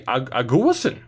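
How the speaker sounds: Aguasin stressed on the middle "GU", ah-GOO-uh-sin; alternative pronunciation. Shown as a demonstration. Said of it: "uh, it could be".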